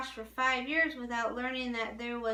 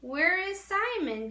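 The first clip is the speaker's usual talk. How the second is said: raised, higher call back; boy calling back to the villager, raised voice; 7 semitones higher, 4 dB louder than usual. A narrator's reading. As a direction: call the question back across the way. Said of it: "Daniel called back".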